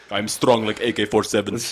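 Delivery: mock Russian strongman accent. Host joking as a strongman, mock Russian accent. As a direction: boast in a put-on Russian accent. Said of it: "Do you have a Russian voice".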